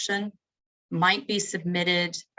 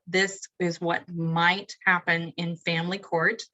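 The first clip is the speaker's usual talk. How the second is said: slow, with weight on "might"; "might" set apart and emphasized; stress on MIGHT; slower than usual. Real, not acted. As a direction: lean on the word "might" as a caveat. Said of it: "need to stress that word might".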